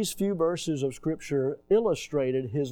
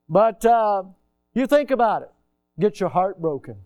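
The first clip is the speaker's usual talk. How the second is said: emphatic preaching; 6 semitones higher, 8 dB louder than usual. Acted.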